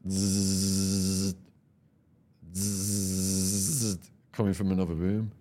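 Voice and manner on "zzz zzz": long, steady droning buzz; imitated buzzing noise. Storyteller imitating a noise heard from another room, droning buzz. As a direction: hold a level zzz, twice. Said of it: "So I hear this noise".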